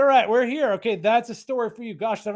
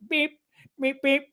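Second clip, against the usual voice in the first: little Honda beeps; 5 semitones higher than usual. Retold or imitated. Describing his Honda's horn to viewers, little beeps. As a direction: toot like a polite little Honda. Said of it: "I've got a Honda horn".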